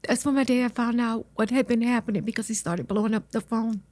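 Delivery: fighting back tears while telling it; emotional. Real, not acted. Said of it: "Hey, it's all right. Let it out".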